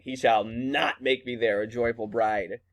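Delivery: understated defiance with weight on not; mildly defiant quoted refusal. Acted. Teacher repeating Juliet's refusal after explaining it, mildly defiant. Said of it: "like, is defiant".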